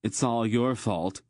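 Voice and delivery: hurt, spiteful accusation; accusing. Acted. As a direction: hurl the blame at a rival. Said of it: "he accused Geryon".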